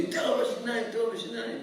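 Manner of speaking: high mock yell at moderate volume; cheering fight fan. Fan urging on the second boxer, high mock yell. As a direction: pitch it up like a rival supporter. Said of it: "and the guys yelling".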